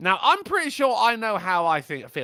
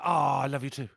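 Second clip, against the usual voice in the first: low man voice; 4 semitones lower, much faster than usual. Retold or imitated. Wife answering husband in a man's voice. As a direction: lower gruff voice for the wife. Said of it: "I gave him the lady voice and her".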